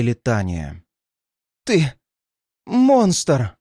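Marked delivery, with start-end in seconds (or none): 1.6-3.6 high-pitched denunciation; accusing. A narrator's reading. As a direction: throw the accusation out on a raised voice. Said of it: "обличительно выдохнула женщина".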